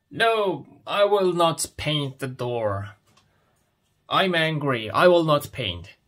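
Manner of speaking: a hammed-up protest, the "No" jumping high; mock angry refusal. Teacher voicing a fed-up dad for the class, mock angry. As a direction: play the grumpy dad refusing to paint, half-serious.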